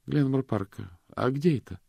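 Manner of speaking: a wary woman on the phone; female caller. A narrator's reading. Miranda voiced on the phone.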